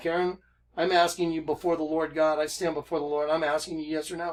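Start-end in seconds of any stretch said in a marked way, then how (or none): none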